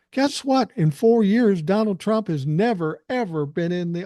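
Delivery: high, gloating taunt. Real, not acted. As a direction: rub it in with a grin. Taunting the Trump fans.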